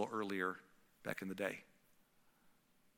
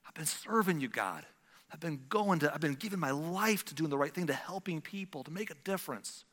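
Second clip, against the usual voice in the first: Elijah's complaint; 6 semitones higher, 4 dB louder than usual. Retold or imitated. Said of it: "Elijah replied".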